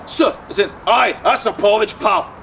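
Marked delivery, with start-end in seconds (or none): 0.1-0.4 lightly imitated Scottish "Sir"; Scottish accent. Comic showing Scottish speech, Scottish accent. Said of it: "my sister that studies in Scotland, where they go". 0.9-2.3 mock Scottish accent. Comic imitating folk in Scotland, Scottish accent. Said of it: "my sister that studies in Scotland".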